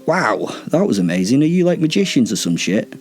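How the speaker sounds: sarcastic fanboy enthusiasm; mock awe. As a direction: gush as if awed by a cheap trick. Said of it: "as though I was awed by the piece of shite magic".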